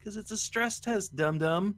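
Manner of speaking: mock-exasperated comeback; mock retort to complainers. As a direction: answer the silly question as if it's obvious. Answering the mocked complainers.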